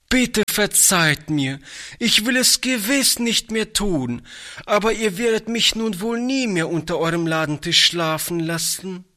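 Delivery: put-on a guilty boy begging forgiveness; tearful pleading boy. A narrator's reading. Toni begs Oliver to forgive him, mildly tearful boy voice. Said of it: "mit tränenerstickter Stimme".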